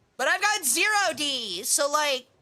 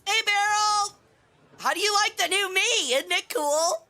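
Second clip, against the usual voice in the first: excited; 8 semitones higher than usual. Real, not acted. Showing off new look to raider.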